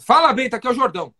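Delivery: high, loud call on Fala; enthusiastic greeting. Shown as a demonstration. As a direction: sound like his old friend. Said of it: "desse jeito".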